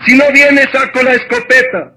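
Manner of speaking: father threatening. Acted. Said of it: "dijo el padre".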